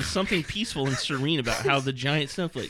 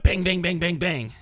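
punchy, raised-pitch bangs; mock gunfire; 6 semitones higher, 6 dB louder than usual. Co-host reading gunfire from a ridiculous novel, mock gunfire. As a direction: rattle off loud, high bangs like gunshots.

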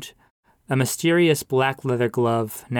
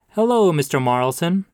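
pastor greeting; 6 semitones higher, 4 dB louder than usual. A narrator's reading. Pastor greeting the widow outside church, hearty. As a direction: sing it out like a warm cleric.

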